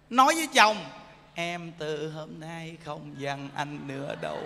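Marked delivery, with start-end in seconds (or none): 1.3-4.4 much softer and slow, with a laugh in it; sweet promise. Pretend. Wife sweetly promising her husband she won't be angry. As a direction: coo it gently like a wife making peace, half laughing.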